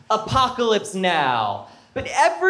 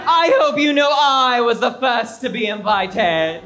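soap diva voice. Acted. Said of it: "dramatic monologue".

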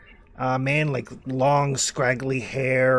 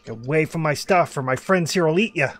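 raised Australian hermit voice; yelling; 2 semitones higher, 4 dB louder, faster than usual. Acted. Hermit threatening strangers with his dingoes, calling out in an Australian accent. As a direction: call out a threat from the hill. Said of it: "Oh, yeah, he's yelling".

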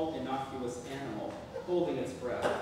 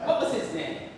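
high, loud prying voice; high prying mother; 12 semitones higher, 7 dB louder than usual. Acted. Mother asks.

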